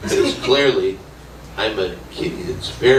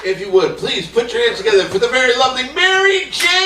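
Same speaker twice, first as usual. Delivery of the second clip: hype introduction; 12 semitones higher, 3 dB louder than usual. Acted. Introducing the next act.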